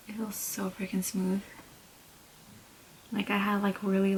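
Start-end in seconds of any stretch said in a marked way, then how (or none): 0.1-1.4 pleased soft whisper. Real, not acted. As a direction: whisper it with delight. Feeling skin after the mask.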